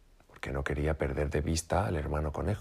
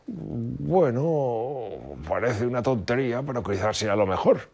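sadly; 7 semitones higher, 3 dB louder, slower than usual. A narrator's reading. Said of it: "con tristeza".

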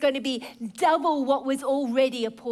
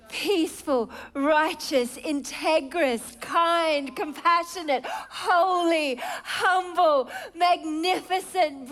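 rising, louder, slow list of praise; awed wonder; 3 semitones higher, 4 dB louder, slower than usual. Pretend. Preacher voicing the world in awe. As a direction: marvel at each word like a dazzled crowd.

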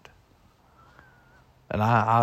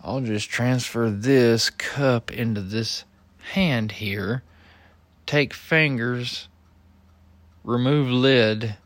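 retold smart-aleck demonstration; smart-ass. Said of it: "I was being a smart ass about it".

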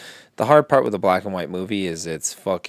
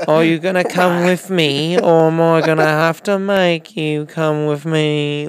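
mock Batman threat; 7 semitones higher, 6 dB louder, slower than usual. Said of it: "Robert Pattinson".

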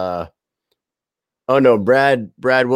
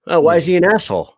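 put-on quick, higher, louder kid question; imitated son; 6 semitones higher, 5 dB louder, faster than usual. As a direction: imitate a nosy little boy piping up. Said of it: "my son is just".

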